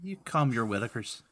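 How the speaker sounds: put-on Irish brogue; roughly done Irish retort; the speaker's Irish accent. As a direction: protest in an amateur Irish accent. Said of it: "Speaking of bad accents".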